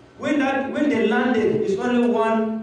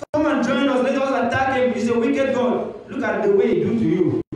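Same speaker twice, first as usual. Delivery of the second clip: a lightly voiced Satan, higher and urging; tempting Satan; 5 semitones higher than usual. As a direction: coax him away from God. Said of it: "It's a demon speaking to him".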